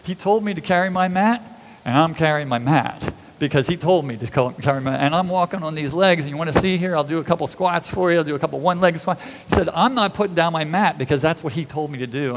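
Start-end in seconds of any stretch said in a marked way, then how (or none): 0.0-9.2 insistent, eager retort, played by a storyteller; mock defiant. Healed man answering his accusers, mock defiant. 9.8-12.3 firm refusal, lightly acted; mock defiant. Healed man refusing his accusers, mock defiant.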